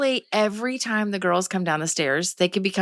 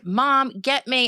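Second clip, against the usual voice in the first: put-on demanding kid; 5 semitones higher, much slower than usual. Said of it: "they would demand".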